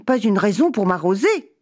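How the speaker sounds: a touch of prim complaint; lightly voiced fussy cat grumble; delicate. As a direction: sniff at getting splashed. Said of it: "dit le chat quelque peu délicat".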